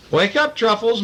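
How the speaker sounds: high sing-song mother voice; Mama calling. A narrator's reading. Mother waking Truffles for breakfast, high call. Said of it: "Mother called".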